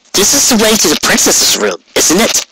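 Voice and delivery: high, wary question; suspicious realisation. Acted. Rainbow questioning the guard about the princess's room, wary. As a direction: catch on to where this leads.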